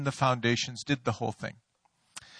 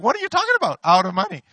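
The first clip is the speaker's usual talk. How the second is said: very high, louder disbelieving cry; high panicked squeak; 7 semitones higher, 6 dB louder, faster than usual. Retold or imitated. Pastor hearing the money is gone, high panicked cry. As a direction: squeal it out like a man losing it. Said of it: "my voice went up three octaves".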